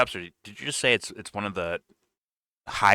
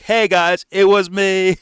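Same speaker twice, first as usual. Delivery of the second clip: high, loud mock confession; mock screaming; 8 semitones higher, 6 dB louder, much slower than usual. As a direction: yell it out as the imagined leaker. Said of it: "he should be screaming".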